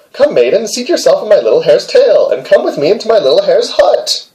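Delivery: high, coaxing little hare; lightly voiced coaxing hare; hare's voice. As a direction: pitch up and wheedle sweetly. Hare coaxes maiden.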